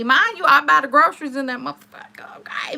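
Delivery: hushed aside to the listeners; whispered aside. Real, not acted. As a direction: whisper the side remark to the crowd. Aside to the audience.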